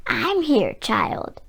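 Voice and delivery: quiet, almost whispered reassurance; soft grandma. A narrator's reading. Grandma comforting the scared child from the doorway, soft. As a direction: hush her gently from the doorway. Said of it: "Grandma said softly".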